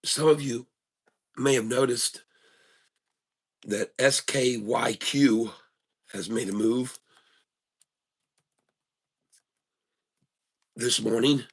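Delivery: hushed golf commentator voice. Acted. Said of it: "We're gonna do the golf voice today".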